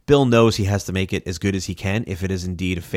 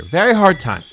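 high, loud, exasperated repeat of the complaint; hammed-up high exasperation; mock exasperated; 9 semitones higher, 6 dB louder than usual. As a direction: whine it out in exaggerated frustration. Host mock-scolds co-host.

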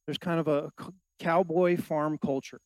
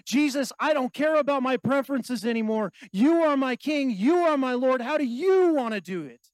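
raised, emphatic plea of submission; fervent surrender to Jesus; 5 semitones higher, 3 dB louder than usual. Acted. Believer laying preferences at Jesus' feet, fervent surrender. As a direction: preach it as an impassioned prayer. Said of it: "lay it at the feet of Jesus and say".

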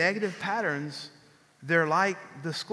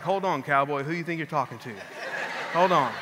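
wife's voice; 4 semitones lower than usual. Retold or imitated. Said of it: "And she's like".

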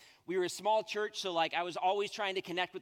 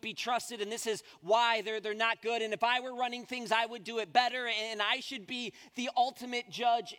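loud, higher, puffed-up know-it-all; mock arrogance; 8 semitones higher, 7 dB louder than usual. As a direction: sneer it like someone who thinks he's the boss. Mocking a self-important attitude.

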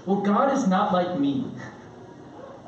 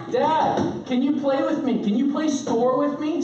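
put-on high little-kid pleading; pleading young daughter; 6 semitones higher than usual. Daughter begs dad to play store, high mock child voice. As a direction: imitate a child begging to play.

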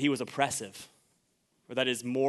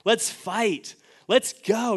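rallying cry; 3 semitones higher, much slower than usual. Retold or imitated. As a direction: whip up the troops. Peter voiced rallying to war.

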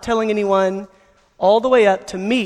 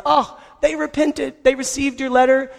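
excited good news; 5 semitones higher than usual. Retold or imitated. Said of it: "He finds".

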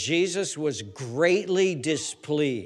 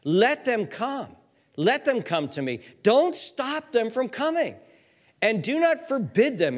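pleading Jesus; 6 semitones higher than usual. Acted. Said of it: "He says".

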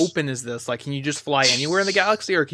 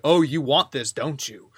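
tempting devilish whisper. Retold or imitated. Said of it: "like they're the emperor from Star Wars".

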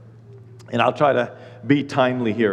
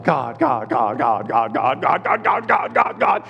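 whining at God; slower than usual. Retold or imitated. Nagging God like a child.

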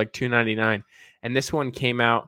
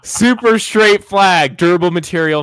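ad read; 7 semitones higher, 5 dB louder than usual. Pretend. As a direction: read it like a sales ad. Reads the Amazon listing aloud.

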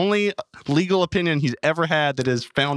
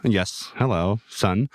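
booming voice of God; 5 semitones lower, slower than usual. Acted. Repeats the deep God voice.

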